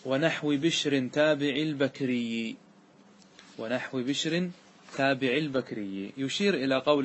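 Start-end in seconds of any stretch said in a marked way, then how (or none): 0.0-2.6 slow, measured chant of the line; verse recitation. Shown as a demonstration. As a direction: intone the verse slowly, syllable by syllable. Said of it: "قال الناظم". (إلقاء بيت الشعر ببطء)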